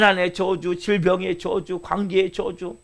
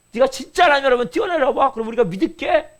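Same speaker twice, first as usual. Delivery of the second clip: scornful dare in a raised pitch; sarcastic mocking; 4 semitones higher than usual. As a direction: imitate a jeering bystander. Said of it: "막 비꼬면서 그렇게 얘기할 때". (비꼬는 말투로 조롱 흉내)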